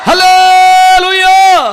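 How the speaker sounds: long, drawn-out high hallelujah cry; big stretched praise shout. Real, not acted. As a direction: hold it and cry it out. Calling congregation to praise.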